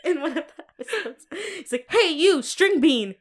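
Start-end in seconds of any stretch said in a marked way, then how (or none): 1.9-3.2 loud, high mock call-out; mock chef bark. Retelling a chef insulting a cook, mock shout. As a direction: call out like a chef singling someone out.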